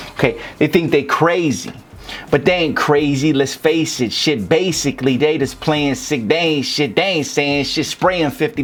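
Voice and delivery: verse read aloud, leaning on the long A in "crazy"; rhyme demo reading. Shown as a demonstration. Rap coach reads verse so students hear assonance, stressed vowels. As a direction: punch each "ay" vowel in "crazy", "face", "spraying". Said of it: "read it to you out loud so you can hear how it's rhyming".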